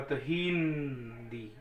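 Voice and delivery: हिंदी said with a long दी. Shown as a demonstration. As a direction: hold the दी in हिंदी. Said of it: "दी समय लिया". (हिंदी का दी लंबा खींचकर)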